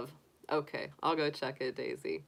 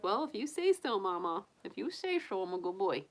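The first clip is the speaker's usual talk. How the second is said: pretend bunny voice. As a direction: answer Mama as a humble little bunny. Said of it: "He's like".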